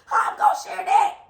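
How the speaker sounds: high laughing squeal; a delighted, scandalised fan shriek; shrieking fangirl. Retold or imitated. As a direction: squeal it half laughing, half crying. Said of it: "I was like".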